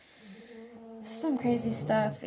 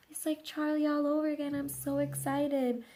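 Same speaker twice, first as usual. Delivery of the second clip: mock excitement; 5 semitones higher than usual. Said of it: "I was like".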